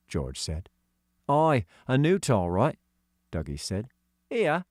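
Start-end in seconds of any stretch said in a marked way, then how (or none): 1.3-2.8 put-on high, light voice for young Doggy; young boy voicing; boy character voice. Dougie's voice. 4.3-4.7 put-on high girl's voice; young girl voicing; girl character voice. Katy's voice.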